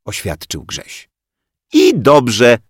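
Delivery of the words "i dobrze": loud, high snort of a reply; snorted retort. Acted. Rozalka snorts back at Grześ, scornful. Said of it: "prychnęła Rozalka".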